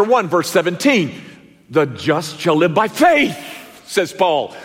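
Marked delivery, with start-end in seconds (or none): 1.7-3.4 weight on faith; stress on faith. Shown as a demonstration. Preacher quoting Romans with stress on faith. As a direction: land the word faith with a falling tune. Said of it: "the emphasis is on a different word".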